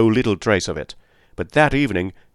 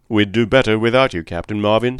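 curt, cold brush-off; coldly. Acted. McGinty rebuffs the new police captain, coldly. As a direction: shut him down without warmth. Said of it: "said McGinty coldly".

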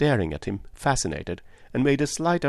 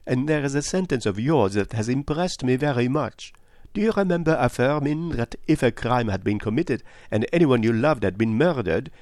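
higher-pitched, deliberate detective; Poirot; 4 semitones higher than usual. Acted. Detective reminds a woman of her words, earnest. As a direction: lead the listener to the point.

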